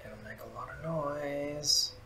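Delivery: soft, slow stage whisper. Acted. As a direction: say it quietly, slowly, like a stage whisper. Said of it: "Was it as a stage whisper?".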